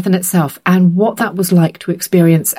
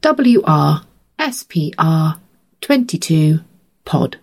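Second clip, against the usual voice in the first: slow spelled-out code; slower than usual. Shown as a demonstration. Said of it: "very long code".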